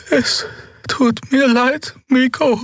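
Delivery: very high, slow breathy apology; breathy whisper. A narrator's reading. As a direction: breathe it out, frightened. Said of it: "hauchte sie".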